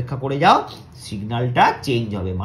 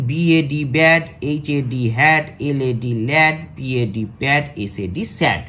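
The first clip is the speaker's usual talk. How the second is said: steady spelling, fading at the end; spelling drill; slower than usual. Shown as a demonstration. Teacher to pupils, repeating the spelling drill more calmly. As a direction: spell them again, less forcefully. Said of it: "আরেকবার পড়ি".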